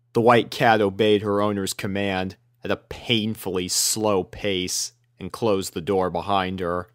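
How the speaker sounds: usual speaking voice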